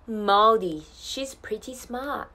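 unhurried Australian pronunciation, rising at the end; Australian English model. Shown as a demonstration. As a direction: model the line slowly in an Australian accent. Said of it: "オーストラリア英語の発音ポイント".

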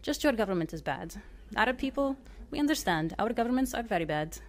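put-on host reassures guest, mild Arabic accent. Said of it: "I butcher Arabic accents".

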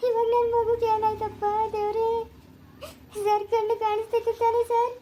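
tearful wail to god; crying. Acted. Mother crying over her hurt son, tearful. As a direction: weep the words out over him.

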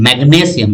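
ম্যাগনেসিয়াম with the stress on the g; stress inside ম্যাগনেসিয়াম. Shown as a demonstration. Teacher showing students where ম্যাগনেসিয়াম is stressed, stress on the g. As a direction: lean on the গ in ম্যাগনেসিয়াম. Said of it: "এখানে উচ্চারণটা".

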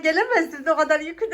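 laughing. Real, not acted. Complaining about heavy load, laughing.

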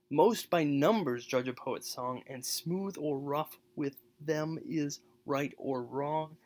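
effortful recitation of the rough couplet; rough reading. Shown as a demonstration. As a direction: push through the hard sounds slowly. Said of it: "He makes that line rough".

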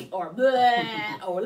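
slow, loud goofy bleh; silly bleh noise. Shown as a demonstration. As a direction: show the wrong noise playfully. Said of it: "now we don't go".

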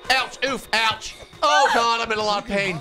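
squeaky high character voice, yelping in pain; high squeaky cartoon voice. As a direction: pitch way up and squeal through it. Falsetto character getting hurt.

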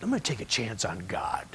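soft breathy whisper under the voice. Retold or imitated. Preacher whispering the woman's choice of faith. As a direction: hush it like a confession. Quoting her leap of faith.

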